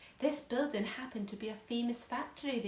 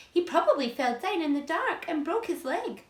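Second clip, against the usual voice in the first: spiteful aunt voice; 7 semitones higher, 8 dB louder than usual. Acted.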